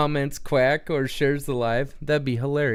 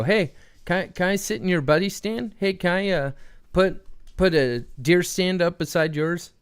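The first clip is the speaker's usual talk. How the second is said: lightly acted higher-pitched request; a hint of an uninvited hunter asking a favor; pleading stranger; 5 semitones higher than usual. Stranger at the foot of the ladder asks to share, lightly acted pleading. Voices stranger below tree stand.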